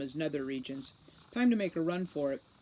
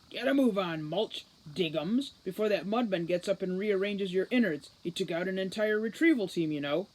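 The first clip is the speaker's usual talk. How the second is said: cackling commander; 2 semitones higher, 3 dB louder than usual. Acted. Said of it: "Root's voice cackled".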